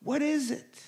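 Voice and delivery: high, loud, fast insistence; hammed-up impatient plea; impatient demand. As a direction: push for an answer, exasperated. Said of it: "there's this frustration".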